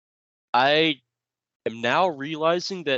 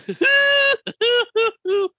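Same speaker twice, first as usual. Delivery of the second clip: burst of laughter; 8 dB louder than usual. Real, not acted. Cracks himself up.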